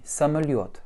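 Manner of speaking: самолёт with both unstressed vowels reduced, ё stressed. Shown as a demonstration. Teacher showing students the reduced vowels in самолёт, reduced A and O. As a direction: say самолёт, weak first vowels, accent on ё. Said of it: "mon A et mon O vont être réduits".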